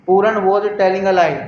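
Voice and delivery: sentence read slowly and firmly; teacher dictating a sentence slowly; slow dictation. Shown as a demonstration. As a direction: read it out slowly for the class to copy. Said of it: "next है".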